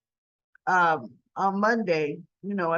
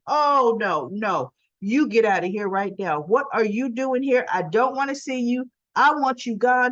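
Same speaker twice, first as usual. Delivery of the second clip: loud, higher mock outburst at father; retold son shouting him away; angry; 3 semitones higher, 3 dB louder than usual. Spencer ordering his father out, imitated anger.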